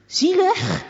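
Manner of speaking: high, loud indignant question; incredulous. A narrator's reading. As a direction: throw the word back in disbelief. Girl surprised at father.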